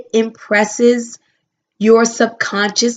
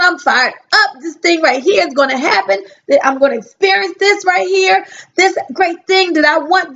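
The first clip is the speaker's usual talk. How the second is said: higher, pumped-up hype talk; fired-up enthusiasm; 5 semitones higher than usual. Retold or imitated. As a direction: talk yourself into the hustle, higher. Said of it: "when you're enthusiastic about something".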